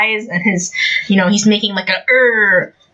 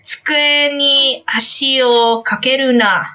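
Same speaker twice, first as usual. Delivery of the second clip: lightly acted stern classmate scolding; slightly raised, lecturing character voice; Ida; 4 semitones higher than usual. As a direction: mildly scold like a rule-bound student. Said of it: "Let me try to do a I-, Ida and a, a Kacchan impression".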